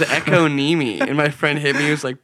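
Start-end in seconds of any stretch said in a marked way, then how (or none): 0.0-1.0 econeme, said as echo-NEE-mee; misread economy. Retold or imitated. Baffled student repeating a word, misread as econeme. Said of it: "Bro, that says economy".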